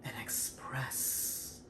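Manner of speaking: loud burst on project, then a breathy drop; projected then faded. Shown as a demonstration. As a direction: punch out project, trail off on express. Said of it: "you have to articulate, project, and express".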